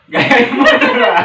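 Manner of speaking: high, loud cute laughing voice. Shown as a demonstration. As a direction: squeal it in a cute style.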